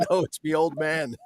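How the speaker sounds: lightly imitated Australian accent. Friend explaining it's his old man, imitated Australian accent. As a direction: do a touch of casual Australian. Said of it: "in fucking Australian, or, you know, with that accent".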